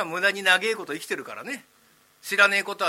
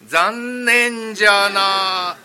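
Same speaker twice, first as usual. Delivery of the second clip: ghost voice; 10 dB louder, much slower than usual. Acted. Ghost reply.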